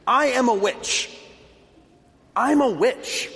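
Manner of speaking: a witch boldly announcing herself; proud defiance. Retold or imitated. Witch defiantly announcing herself to the Christians, proud. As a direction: declare it proudly and defiantly, head high. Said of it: "announced proudly and defiantly".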